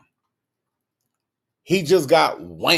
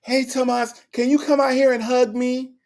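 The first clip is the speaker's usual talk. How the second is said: needy mother; 6 semitones higher than usual. Acted. Mother voiced on phone.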